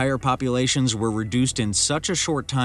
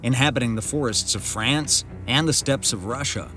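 calm, measured documentary narration; nature documentary; 3 dB louder than usual. A narrator's reading. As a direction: narrate like a wildlife film.

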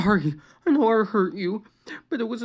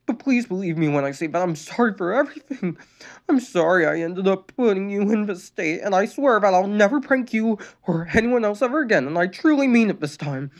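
high, louder tearful apology; tearful pleading; 8 semitones higher, 4 dB louder than usual. A narrator's reading. Sister apologizing to her brother, tearful. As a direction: plead through tears. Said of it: "Luann pleaded tearfully".

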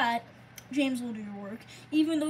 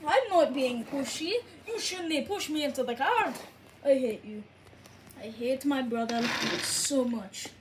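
put-on Scottish accent that slips; shaky Scottish accent. Scottish twins bickering over pushing, wobbly Scottish accent. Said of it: "My Scottish accent is breaking down here".

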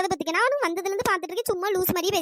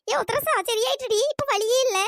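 happy relief; 4 semitones higher than usual. Acted. Tells friend pain is gone.

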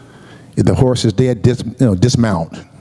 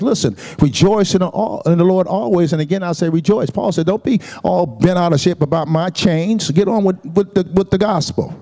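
fervent Paul; 5 semitones higher than usual. Retold or imitated. Paul quoted with fervor.

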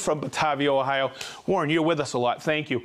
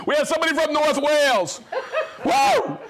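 laughing; 9 semitones higher, 3 dB louder than usual. Real, not acted. Host cracking up reading a viewer's location, laughing whoop. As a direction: laugh through the line, high and loud. Laughing over a hard name.

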